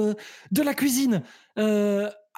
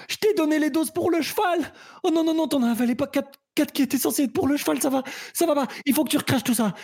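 panicked realisation; 5 semitones higher, much faster than usual. Acted. Realises horse dose mistake.

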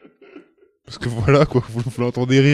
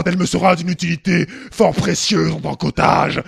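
pompous villain; 2 semitones higher than usual. Acted. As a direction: declaim like a scheming noble. Villain monologue in old French.

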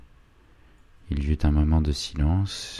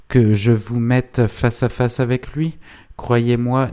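raised-pitch, mildly heated challenge; interrupting exclamation; 8 semitones higher, 5 dB louder than usual. A narrator's reading. Gentleman offers to confront them face to face, mildly heated. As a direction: press the challenge, pitch lifted. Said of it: "s'écria Savigny en l'interrompant".

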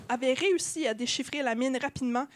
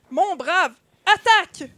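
loud, high command; cried battle order; 4 semitones higher, 8 dB louder, slower than usual. A narrator's reading. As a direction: build to a shouted order to attack. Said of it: "cria Nantel Romane". (ordre d'attaque crié)

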